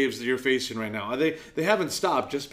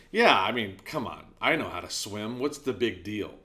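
cocky dismissal; 6 semitones lower than usual. Retold or imitated. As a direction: shrug it off, overconfident and casual. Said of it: "in my arrogance and my frivolity".

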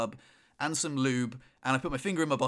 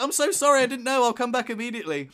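apologetic partner; 8 semitones higher, 6 dB louder than usual. Retold or imitated. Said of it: "she was like".

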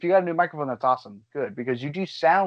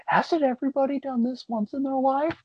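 incredulous self quote; 11 semitones higher than usual. Retold or imitated. Quoting own past thought.

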